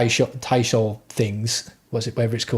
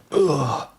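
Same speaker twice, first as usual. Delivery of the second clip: morning groan; 2 semitones higher than usual. Retold or imitated. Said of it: "stand up and go".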